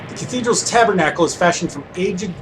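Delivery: measured read-aloud of game text; story narration. Acted. Player reads the guard scene aloud, narrating.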